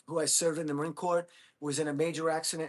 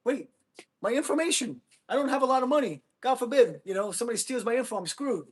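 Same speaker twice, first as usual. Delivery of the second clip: high, loud hammed-up freak-out over stolen info; mock terror about his stolen info, pitched way up and loud; mock panic; 8 semitones higher, 5 dB louder than usual. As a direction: squeal it like a comic panic attack. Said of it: "I'm like".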